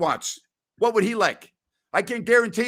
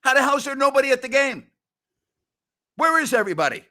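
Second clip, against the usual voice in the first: mock disbelief; 5 semitones higher, faster than usual. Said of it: "I'm like".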